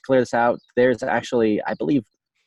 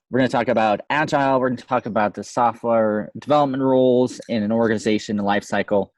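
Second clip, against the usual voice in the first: distorted hot mic; fuzz distortion. Real, not acted. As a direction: overdriven clipping mic sound. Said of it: "so I sound a little bit distorted".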